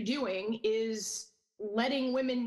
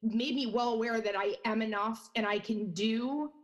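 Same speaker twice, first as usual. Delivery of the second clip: shaking voice. Real, not acted. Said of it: "my voice is shaking right now".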